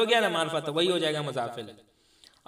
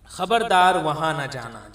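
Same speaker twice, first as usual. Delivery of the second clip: stern warning; 7 dB louder, slower than usual. Shown as a demonstration. Warning example in Urdu lesson.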